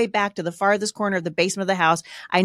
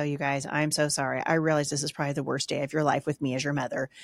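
remorseful apology; 5 semitones lower, 5 dB quieter than usual. Retold or imitated. Mother apologizing to her kids.

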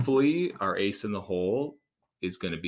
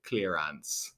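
"clearance" drawn out slowly in a lower, mock Jamaican accent; 4 semitones lower than usual. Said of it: "I said clearance in a Jamaican accent".

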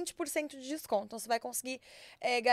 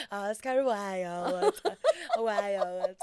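laughing; 4 semitones lower, much slower than usual. Real, not acted. Retake of the intro, laughing.

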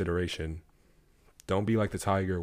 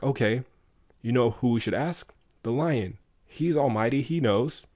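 excited donkey; 5 semitones higher, 4 dB louder than usual. Retold or imitated. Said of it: "the donkey's like".

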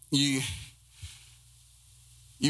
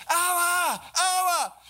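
put-on much higher, ringing child's call; little girl calling; much slower than usual. Little girl in the hotel lobby calling her father, high child's call. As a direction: call out like a tiny girl spotting her dad. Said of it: "empezó a gritar".

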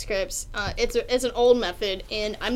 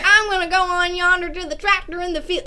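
exaggerated mock Southern yokel voice; campy Southern accent; 7 semitones higher than usual. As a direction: overdo a stereotyped Southern accent for laughs. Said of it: "making it too campy".

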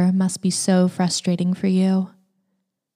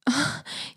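breathy moan; 7 semitones higher, 8 dB quieter than usual. Acted. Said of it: "I let out a groan of enjoyment".

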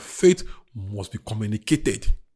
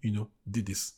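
closing prayer. Acted. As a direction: pray gently over each person's need.

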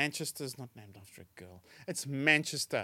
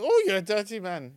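higher, louder Yorkshire wife; Yorkshire accent; 6 semitones higher, 7 dB louder than usual. Acted. Wife in a joke scolds a forward stranger, Yorkshire accent. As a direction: scold him in broad Yorkshire. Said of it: "the Yorkshire accent really makes it".

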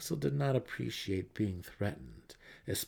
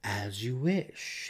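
slow, courtly bow in the voice; a rogue granting a favor with a flourish; smooth mercenary; much slower than usual. Acted. Jarlaxle bowing to Matron Malice, slow and courtly.

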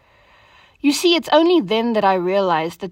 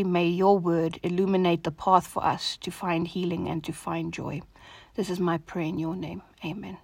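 softly spoken, even-toned prayer; soft devotional prayer; 5 dB quieter than usual. Real, not acted. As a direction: pray quietly and evenly, letting phrase ends sink. Leads an opening prayer.

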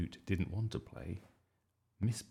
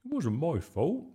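higher, anxious protest; stammering; 8 semitones higher, 4 dB louder than usual. A narrator's reading. Bertie backing away from Miss Boot, nervous protest. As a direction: plead innocence nervously. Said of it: "he stammered".

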